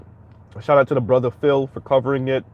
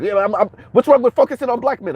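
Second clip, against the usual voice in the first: high, dismissive mock voice; imitating her; 7 semitones higher, 3 dB louder, faster than usual. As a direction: toss it off like she doesn't care. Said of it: "she pretty much said the same thing".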